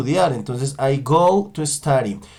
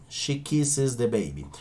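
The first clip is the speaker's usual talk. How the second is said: quieter, quicker echo of the sentence; softer repeat; 3 semitones lower, 7 dB quieter, slower than usual. Shown as a demonstration. Teacher repeats the model sentence softly after demonstrating. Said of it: "yo diré".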